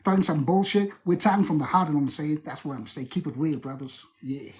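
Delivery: put-on African American hip-hop accent; American hood accent. Shown as a demonstration. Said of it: "American hood accent".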